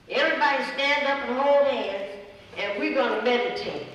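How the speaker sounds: loud commanding call to the group; bossy demand. Retold or imitated. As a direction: order everyone up like a drill leader. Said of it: "she would demand".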